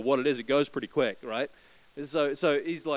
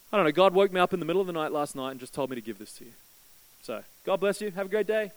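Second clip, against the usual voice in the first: casual stranger; 4 semitones higher, 5 dB louder, faster than usual. Retold or imitated. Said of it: "the guy says".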